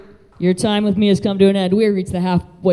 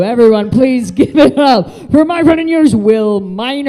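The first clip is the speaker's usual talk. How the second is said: emcee introduction; 4 semitones higher, 4 dB louder than usual. Real, not acted. Host announces co-host to stage.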